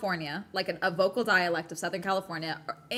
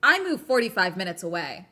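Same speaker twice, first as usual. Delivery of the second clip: starts flat, then higher and louder in disbelief; incredulous, exasperated; 4 semitones higher, 7 dB louder than usual. Retold or imitated. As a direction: build from flat to exasperated outrage. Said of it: "And I was like".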